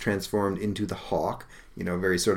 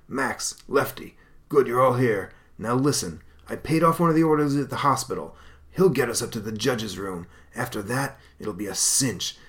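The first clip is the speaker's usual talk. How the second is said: raised, scheming crook's voice; gangster boss; 3 semitones higher than usual. Acted. Crook boss briefing his gang, scheming voice.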